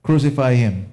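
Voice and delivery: imitating the angry mob; mock crowd shout. Preacher echoing the crowd's demand, mild mock yell. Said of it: "sila ngayon yung sumisigaw na".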